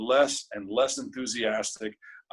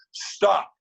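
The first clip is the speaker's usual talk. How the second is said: big, higher, louder bellow; bellowing professor; 6 semitones higher, 4 dB louder than usual. Retold or imitated. Acting professor cutting off a student's monologue, bellowing. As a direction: bellow it to halt the audition. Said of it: "with that voice".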